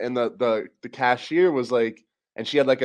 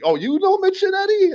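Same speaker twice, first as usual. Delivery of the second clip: high squeaky mock of the cashier; imitating the cashier's high squeal back at her; 4 dB louder than usual. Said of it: "I was like".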